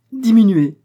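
high, loud scoffing "Diminuer"; wife laughing off the order; mocking laugh. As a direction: toss it off as a joke. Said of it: "répétait-elle".

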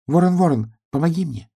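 high pleading piglet; piglet's plea to star. A narrator's reading. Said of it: "нашёл в небе свою звезду и сказал".

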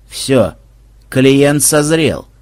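slow, pleased remark; satisfied. Acted. Banzai pleased with the frightened prisoner, slow smug remark. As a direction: savor it, the client is ripe. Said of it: "удовлетворённо заметил Банзай".

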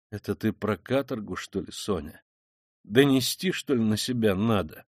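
subdued, sombre questioning; gloomy. Acted. Killer asking Sonya about confession, gloomily. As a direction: ask darkly, letting the voice sink. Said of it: "спросил он мрачно".

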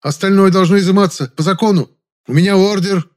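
loud high-pitched yelp; shrieking. A narrator's reading. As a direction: squeal it out in a panic. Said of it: "взвизгнул вдруг Жасминов".

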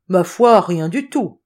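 loud start, easing off; a lightly voiced colleague's answer; lightly acted reply. A narrator's reading. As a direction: shrug the question away aloud. Character answers colleague's question.

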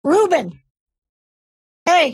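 loud call for attention. Real, not acted. Streamer calling out to Ruben on the call, loud. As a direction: shout his name to get him back.

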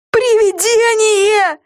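high, slow frightened gasp. A narrator's reading. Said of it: "охнула Люси".

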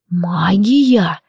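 "Магия!" hissed through the teeth; a dragon hissing one sharp word. A narrator's reading. Dragon hissing at the healer girl, hissed. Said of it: "прошипел Вильгельм".

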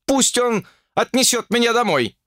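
«пусть» yelled high, the rest shouted; shouting. Acted. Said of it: "переходя на крик". (кричит «пусть» высоко и громко)

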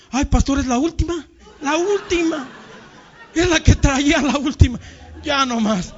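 high, laughing apology; boy excusing himself to the pastor, laughing; sheepish excuse. Retold or imitated. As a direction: promise it's the last one with a grin.

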